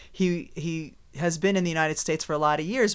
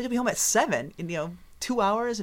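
mock incredulous, higher-pitched query; retold disbelief; 5 semitones higher than usual. Wife doubting husband's promise about the commute, incredulous.

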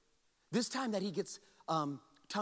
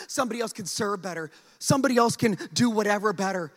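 pleading; 5 dB louder than usual. Acted. Moses asks God to send someone else, growing pleading. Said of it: "Moses pleads".

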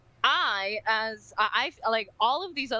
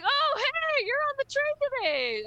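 cheery greeting. Retold or imitated. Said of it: "it's like".

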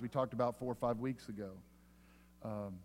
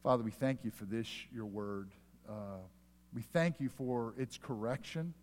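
prayer. Real, not acted. Pastor leads prayer.

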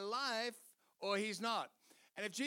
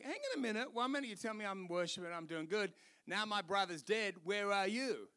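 ticked off. Retold or imitated. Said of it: "She was ticked".

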